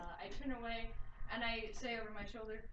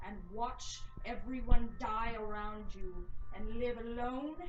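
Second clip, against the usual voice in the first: slow menacing curse; 2 semitones lower, 5 dB louder, slower than usual. Acted. Curse delivered to captive.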